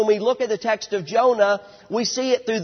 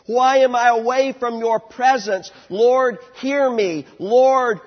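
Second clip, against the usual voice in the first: crying out to God; 3 dB louder than usual. Acted. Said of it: "he is crying out".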